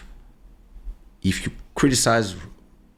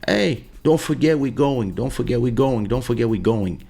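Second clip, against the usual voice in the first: imitating daughter; 2 semitones higher than usual. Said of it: "when she kept telling me".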